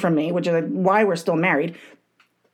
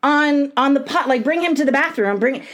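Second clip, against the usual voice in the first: higher, urgent mock yell at husband; 6 semitones higher than usual. Wife yelling at husband to take the kid to the bathroom, urgent raised voice. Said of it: "And I'm yelling at him".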